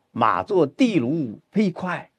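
slow recital, 地卢 drawn out and stressed. Shown as a demonstration. Teacher demonstrates the horse line to student, slow stress on 地卢. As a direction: stretch and weight 地卢, slowly. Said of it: "应该是放在地卢上".

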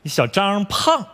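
slow, evasive fudge; halting cover-up. Acted. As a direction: stretch the words out while improvising. Covers up praise with similar-sounding words.

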